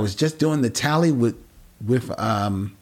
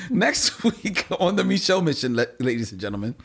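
breaking voice through a laugh; cracking voice, laughing at it; voice still cracking; 2 semitones higher, faster than usual. Real, not acted. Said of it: "it's still cracking".

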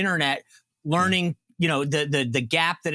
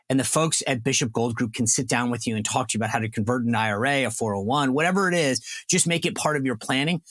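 upbeat, lower-pitched pitchman read; live ad read; 6 semitones lower than usual. Acted. Host reading a sponsor ad to listeners, pitchman voice. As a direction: sell it to the listeners like a radio spot.

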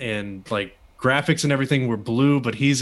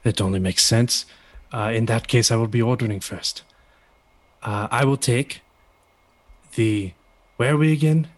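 put-on German accent, measured delivery; a hint of a German accent. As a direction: attempt a German-accented wrestler. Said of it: "trying to do the German accent".

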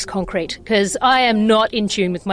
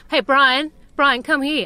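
higher, louder playful call to a dog; mock dog call; 5 semitones higher, 4 dB louder than usual. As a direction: call a dog in, lightly acted. Acts out calling a dog.

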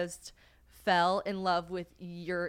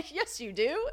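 imitated amused local; 8 semitones higher, slower than usual. Local man teasing the Americans about their talk, imitated amusement. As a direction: mimic a man laughing as he contradicts. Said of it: "And he's like".

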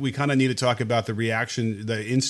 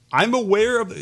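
put-on higher-pitched Southern accent; 8 semitones higher than usual. Co-host starts quoting the congressman's statement, in a Southern accent. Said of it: "I'm not gonna do it in an accent".

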